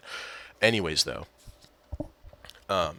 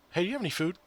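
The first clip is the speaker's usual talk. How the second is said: high, softer imitation of a teammate; mimicked teammate question; 10 semitones higher, 4 dB quieter, much faster than usual. Replaying teammate's food request, mimicked high. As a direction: quickly echo the other player's question up high.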